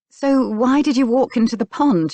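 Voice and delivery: pointed, probing query; pressing question. A narrator's reading. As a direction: press for an answer. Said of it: "she pressed".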